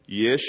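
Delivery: "Yish" said alone for repeating; teacher sounding out "Yish"; Hebrew pronunciation demo. Shown as a demonstration. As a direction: model the syllable "Yish", short and lifted at the end. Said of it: "I want you to repeat after me".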